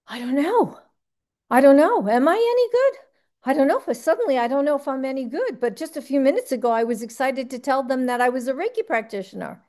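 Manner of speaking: rattled and rushing, spiking up on am I any good; mock panic, tripping over the words; a hammed-up fluster of doubt; flustered self-doubt.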